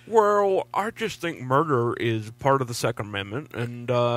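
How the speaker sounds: lightly voiced old senator; Mitch McConnell impression. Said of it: "I can't talk like Mitch".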